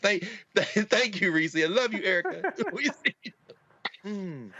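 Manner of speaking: real tears held back, laughing through them; choking up. Real, not acted. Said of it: "I'm choking up thinking about it".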